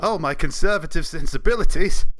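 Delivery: having a heart attack. Pretend. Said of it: "will fake a heart attack".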